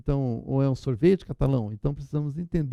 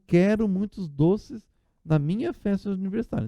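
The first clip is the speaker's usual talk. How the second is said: put-on reading child's writing; 4 semitones higher than usual. Shown as a demonstration. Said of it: "a criança escreveu".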